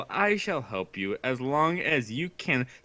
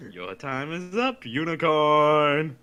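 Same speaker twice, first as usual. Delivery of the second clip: declaring. Acted. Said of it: "He declared".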